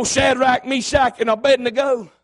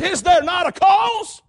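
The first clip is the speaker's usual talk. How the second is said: bold David challenge; 5 semitones higher, slower than usual. Acted.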